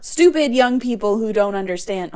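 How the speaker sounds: lightly voiced cranky old woman; grumpy old lady. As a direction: grumble like an old lady on her porch. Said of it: "I just sounded like the fucking old lady".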